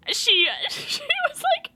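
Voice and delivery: laughing through the words; breaking into a laugh. Real, not acted. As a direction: giggle as you start the line. Laughing while retelling.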